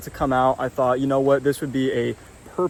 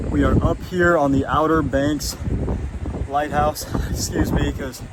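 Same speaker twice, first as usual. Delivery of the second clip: out of breath from the climb; winded, catching breath between words; gasping for air. Real, not acted. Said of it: "I'm out of breath".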